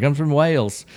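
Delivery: a lightly put-on bad English accent. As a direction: fake a British accent, badly. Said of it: "do my English accent as bad as it was".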